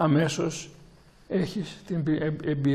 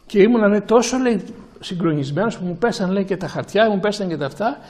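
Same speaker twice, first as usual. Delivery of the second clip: retold awe; 3 semitones higher, 3 dB louder than usual. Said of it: "εκστατικός".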